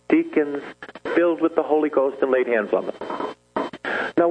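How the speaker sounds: ordinary delivery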